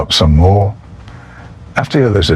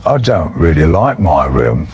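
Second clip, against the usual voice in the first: put-on drunken warble; 3 semitones lower than usual. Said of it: "I warbled".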